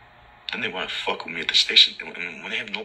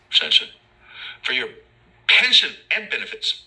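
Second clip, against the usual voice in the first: loud, higher, slow yelled rant; retold yell; 5 semitones higher, 3 dB louder than usual. Yelling back at the inmate from the bottom, loud higher rant. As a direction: shout it up at the tier. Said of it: "I yell".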